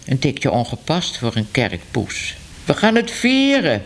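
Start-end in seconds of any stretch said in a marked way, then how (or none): 2.6-3.8 hoog en luid uitgeroepen; schreeuwend. A narrator's reading. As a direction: roep het uit van vreugde. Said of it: "schreeuwde ze". (luid schreeuwend van vreugde)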